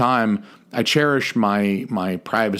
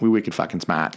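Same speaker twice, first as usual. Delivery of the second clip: Boston accent, "wicked" and "smart" without the R; playful Boston townie accent; 3 semitones lower than usual. Shown as a demonstration. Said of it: "working on my, uh, Boston accent".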